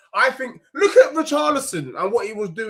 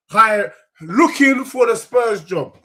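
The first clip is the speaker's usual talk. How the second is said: louder, drawn-out mock announcement; mock job advert; 6 dB louder than usual. Fan joking he wants the Spurs job, loud mock proclamation.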